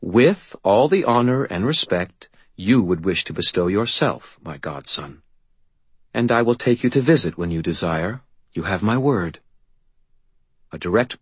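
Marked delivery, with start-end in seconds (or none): 0.0-9.4 lightly raised solemn fae voice; a touch of a solemn faerie vow; faerie godmother. Acted.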